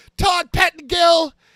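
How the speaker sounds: put-on shrill voice. Retell how he said the name Todd Pettengill, imitating a shrill voice. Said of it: "he had that shrill voice".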